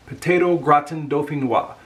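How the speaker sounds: gratin dauphinois said grah-tan doh-fee-NWAH; careful French dish name; French pronunciation. Shown as a demonstration. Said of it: "I think I said it right".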